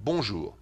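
short, quick "Bonjour", falling at the end; French-style bonjour. Shown as a demonstration. Host repeats the French example for listeners, brisk "Bonjour". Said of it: "like that".

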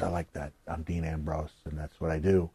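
low, soft self-assured mumble; a hint of a cocky wrestler, quiet; lightly voiced Dean Ambrose. Dean explaining himself, low and quiet. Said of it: "he goes".

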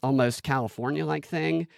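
put-on lightly hinted Valley Girl upspeak; a touch of California Valley Girl. Shown as a demonstration. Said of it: "it's kinda like this Valley Girl-ish".

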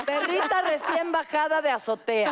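laughing. Real, not acted. Joking among hosts, laughing.

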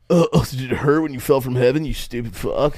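mock smooth pickup line, sour ending; cheesy pickup line. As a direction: deliver a corny pickup line then turn rude. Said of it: "We just go up to you and go".

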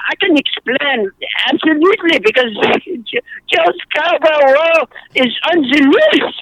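hammed-up French accent, drawing out the last word; comic French-accented accusation; bogus French accent. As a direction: declare it in silly mock French. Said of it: "it's really fun to do a bogus French accent".

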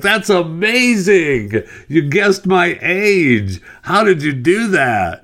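very high, loud, slow gushing lady voice; amazed lady. Acted. Teller voices amazed lady in joke.

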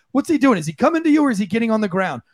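usual speaking voice

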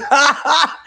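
short high-pitched laugh; amused laugh. Real, not acted. Laughing about how a friend takes pictures, amused laugh.

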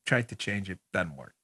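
mock-sheepish quiet. Real, not acted. After being told he yells, a soft sheepish apology. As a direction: drop it to a sorry murmur. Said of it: "I'm a little excited today".

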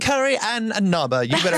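high-pitched mock British accent; joking British accent. Shown as a demonstration. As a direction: put on a playful British accent. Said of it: "read it in a British accent".

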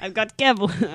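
badly faked New York accent; failed New York accent. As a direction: attempt New Yorkese and miss. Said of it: "I can't even do that accent".

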